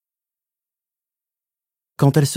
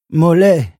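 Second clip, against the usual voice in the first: high, loud, sugary pet name; sugary uncle; 9 semitones higher, 7 dB louder than usual. Acted. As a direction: coax her like a little child. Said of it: "d'une voix doucereuse".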